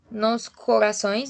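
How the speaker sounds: slow "Nos corações", syllables spaced; syllable division. Shown as a demonstration. Teacher showing ordinary syllable division, slow and separated. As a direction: say "Nos corações" slowly, part by part. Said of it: "façam a divisão silábica".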